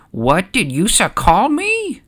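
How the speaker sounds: offended, slow, high-pitched challenge; Jar Jar Binks. Acted. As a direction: draw out an affronted question. Jar Jar turns, offended by insult.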